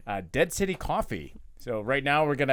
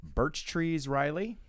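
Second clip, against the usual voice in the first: dramatic voice; 4 dB quieter than usual. Pretend. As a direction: deliver the intro with mock gravity. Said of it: "here's mine".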